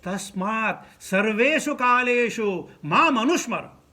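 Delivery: slow, drawn-out Sanskrit quotation; verse recitation. Acted. Preacher quotes scripture on remembering God always, slow verse recitation. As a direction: stretch out the verse syllables slowly.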